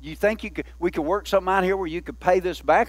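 mock-polite, softened suggestion; politely asking. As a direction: play a mild, reasonable creditor offering to negotiate. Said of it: "just politely say".

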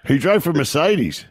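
slow, laughing through the words; barely holding back laughter. Real, not acted. Laughing at the name.

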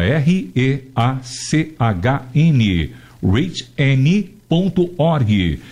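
slow, letter by letter dictation; spelling it out. Shown as a demonstration. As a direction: spell each letter slowly and clearly. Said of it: "soletrando pra você".

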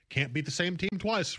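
put-on a quick Southern accent on a sports cliché. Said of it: "I went into a Southern accent on that".

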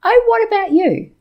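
a touch of a fed-up stranger; mild impression of a ranting passenger; annoyed lady. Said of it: "And then she said".

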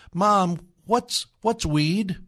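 put-on wide-eyed child asking mom; innocent child. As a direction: drag it out like a naive little kid. Child's question voiced by speaker.

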